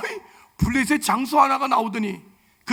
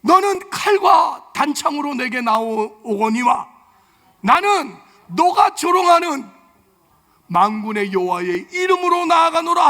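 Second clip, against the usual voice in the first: slow, loud, higher proclamation; David's battle cry; 5 semitones higher, 6 dB louder, slower than usual. Retold or imitated. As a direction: declare it boldly to the giant. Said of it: "시작!". (골리앗에게 선포하는 다윗)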